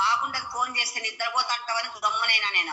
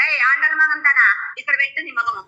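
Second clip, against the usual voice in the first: louder furious scolding of daughter; loud berating; 2 semitones lower, 5 dB louder than usual. Real, not acted. Mother berates daughter over the mehndi prank, loud angry scolding. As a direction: tear into her again.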